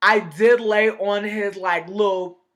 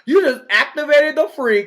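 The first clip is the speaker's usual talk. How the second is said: high, loud squealing outrage, hammed up; mock freak-out; 7 semitones higher, 3 dB louder than usual. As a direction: shriek like someone just flipped a switch in you. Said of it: "I kinda be like".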